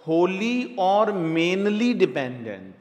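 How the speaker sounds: "होली और mainly डिपेंडेंट" said as one slow joined phrase; slow recap phrase. Shown as a demonstration. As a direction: read the whole bracket back slowly in one go. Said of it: "bracket में आपको लिखना पड़ेगा".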